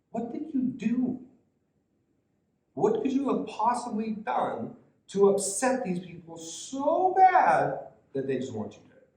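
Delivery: high-pitched, incredulous questioning, leaning hard on "so bad"; puzzled disbelief, stretched out for emphasis; baffled Pilate. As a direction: ask it as if you cannot understand. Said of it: "Pilate doesn't understand".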